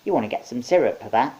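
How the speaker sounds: loud witch voice; hag voice. A narrator's reading. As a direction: crone offering a remedy. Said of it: "one of the small hags said".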